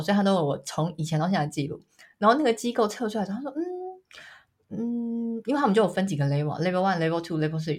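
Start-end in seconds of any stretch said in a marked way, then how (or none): 3.6-5.4 hesitant hmm. Retold or imitated. Tester hesitating over result.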